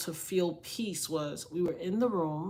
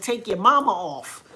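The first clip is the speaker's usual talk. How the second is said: full-chested; 7 dB louder than usual. Retold or imitated. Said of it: "I said it with my whole chest".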